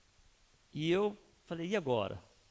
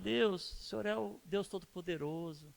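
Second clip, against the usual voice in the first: lightly voiced worshipper lifting up God; imitated reverent prayer. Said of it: "Eu vejo eles chegando em Deus e falando".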